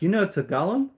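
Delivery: high, loud delighted disbelief; amazed. Retold or imitated. Massage lady amazed the customer knows Tagalog, loud high. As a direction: sound thrilled and amazed. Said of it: "She's like".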